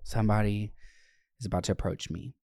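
a quiet worried aside; hushed worry. Retold or imitated. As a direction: mutter it, nervous someone's coming. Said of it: "and I'm like".

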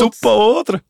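high, sing-song mock Swiss accent; Schweizer Hochdeutsch. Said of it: "so sein Schweizer Hochdeutsch". (hoher, nachgeäffter Schweizer Singsang)

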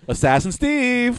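high character voice. Acted. Roll call in character voice.

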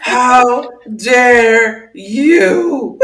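drawn-out "How dare you" cracking into laughter; laughing mock outrage. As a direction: fake indignation you can't keep straight. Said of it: "starting to lose her mind".

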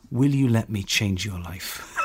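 slow, earnest mock preacher pitch. Telling a stranger the book will change her life, slow mock preacher. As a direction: lay it on like a slow TV evangelist. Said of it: "An American preacher's just turned up".

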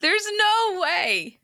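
high, drawn-out disbelief; disbelieving. Real, not acted. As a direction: stretch it out in shock. Disbelief at bra size.

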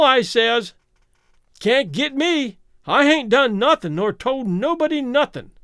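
put-on raspy old drunk sailor, raving; old sailor rant. A narrator's reading. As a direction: rant like a crazed old seaman. Old Zadok's ranting voice.

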